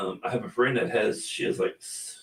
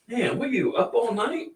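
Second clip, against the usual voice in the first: much higher, cooing voice for the dog; pet talk; 12 semitones higher than usual. Real, not acted. Owner asking yawning Bailey about her night, in high cooing pet talk.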